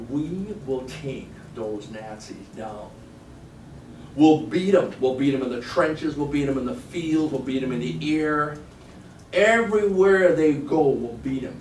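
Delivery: slow start building to loud defiant rallying; Winston Churchill rant. Retold or imitated. Quoting a wartime leader to the class, a building loud rallying rant. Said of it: "ranting like this".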